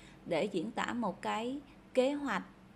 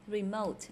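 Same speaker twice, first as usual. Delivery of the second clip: "Remote" stressed on MOTE; second-syllable stress. Shown as a demonstration. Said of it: "nó nhấn âm thứ hai". (nhấn âm thứ hai trong "Remote")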